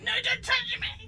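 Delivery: put-on high, loud whiny child voice; mock a wailing little girl. Mum imitates injured daughter refusing help, whiny wail. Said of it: "She's like".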